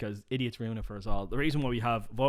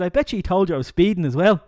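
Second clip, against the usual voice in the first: laughing punchline; 4 semitones higher, 9 dB louder than usual. Acted.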